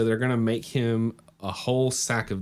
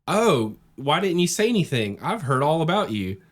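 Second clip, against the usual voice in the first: a bright, apologetic pup, much higher; high eager dog voice; 7 semitones higher, 4 dB louder than usual. Acted. Co-host voicing the dog meeting Momotaro, high and eager. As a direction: pitch it way up like an excited dog.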